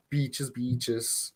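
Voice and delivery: "Beaches, beaches" with a Hispanic P sound like B; Hispanic accent. Shown as a demonstration. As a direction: say "Beaches" for peaches, Hispanic style. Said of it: "sometimes I do have that Hispanic accent".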